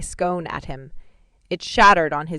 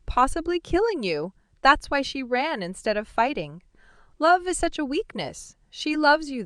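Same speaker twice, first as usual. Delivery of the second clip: much higher, mocking villain voice; the sorcerer purrs about love as a weakness, pitched up; sinister sorcerer; 8 semitones higher than usual. Sorcerer taunts his daughter about her mother, high and mocking.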